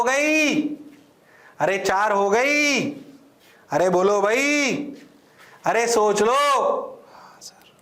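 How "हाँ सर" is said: breathy whispered student reply; whispered yes sir. Acted. Teacher voicing a student, whispering yes sir.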